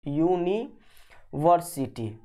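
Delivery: यूनिवर्सिटी very slowly, in separated parts; broken into syllables. Shown as a demonstration. Teacher spelling out a word for students, यूनिवर्सिटी slowly in parts. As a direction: draw out यूनिवर्सिटी piece by piece as if writing it. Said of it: "यूनिवर्सिटी कैसे लिखाता है".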